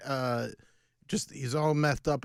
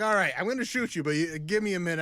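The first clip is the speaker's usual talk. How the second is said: hurried soldier; 2 semitones higher, 4 dB louder, much faster than usual. Retold or imitated. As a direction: rush the reload excuse. Musket shooter voiced.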